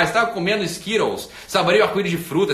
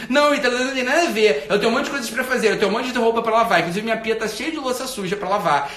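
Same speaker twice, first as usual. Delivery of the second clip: hurried, slightly raised excuse-maker; mock defensive excuses; 3 semitones higher than usual. Follower listing chores to the host, mock defensive. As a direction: imitate someone rattling off excuses.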